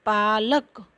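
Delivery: पालक said whole and clear; teacher models पालक after spelling it; model pronunciation. Shown as a demonstration. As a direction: give the final pronunciation पालक. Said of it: "उच्चारण".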